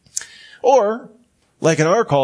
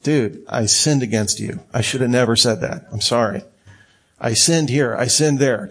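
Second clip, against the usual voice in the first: sincere apology; 3 semitones lower than usual. Retold or imitated. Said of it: "call it what it is".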